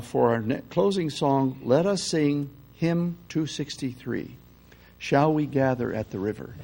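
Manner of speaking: sly, cautious hymn announcement; announcing with a smile. Retold or imitated. Song leader slyly announcing the closing hymn. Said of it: "announced with smile".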